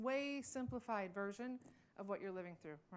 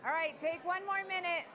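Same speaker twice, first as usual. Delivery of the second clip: calling out; 3 semitones higher than usual. Real, not acted. Calling the room back together.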